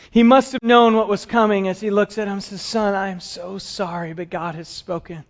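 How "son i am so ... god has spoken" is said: softer, grieving apology; tearful father. Acted. Abraham telling Isaac he must be sacrificed, soft and tearful. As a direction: break the news gently through tears.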